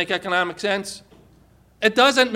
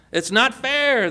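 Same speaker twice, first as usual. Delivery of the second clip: mildly raised, higher-pitched complaint; shouted protest; 5 semitones higher, slower than usual. Acted. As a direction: protest as a wronged worker, half shouting. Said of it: "they shouted".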